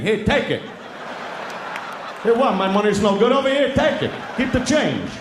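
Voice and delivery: a guy at McDonald's shoving money at the cashier, indignant; customer pushing his money. Retold or imitated.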